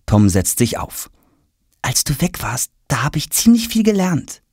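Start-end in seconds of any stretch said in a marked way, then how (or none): 1.8-4.4 put-on high-pitched, eager boy's voice; excited boy. A narrator's reading. Tom tells father what he learned, excited. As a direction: share your news with excited anticipation. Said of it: "sagt er aufgeregt".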